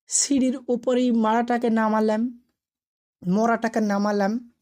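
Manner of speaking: usual speaking voice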